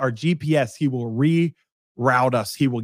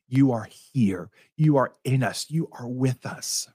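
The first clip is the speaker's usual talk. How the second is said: prayer. Real, not acted. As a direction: address the Holy Spirit reverently, phrase by phrase. Leads a prayer.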